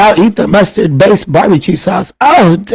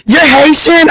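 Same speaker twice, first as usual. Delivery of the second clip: high, surprised question; delighted disbelief at the news; 8 semitones higher than usual. Real, not acted. Asking a viewer if they're Haitian, in high surprise.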